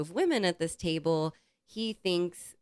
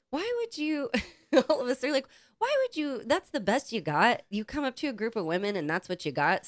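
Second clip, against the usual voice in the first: mock indignant; 7 semitones higher than usual. Group retorts to rude guy.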